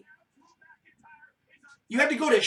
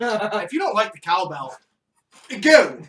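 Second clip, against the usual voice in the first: shouting; 6 dB louder than usual. Pretend. Shouting off cowbell haters.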